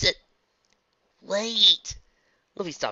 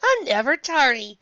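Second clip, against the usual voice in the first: slurred; 13 semitones higher, 9 dB louder, slower than usual. Acted. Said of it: "said in a slurred voice".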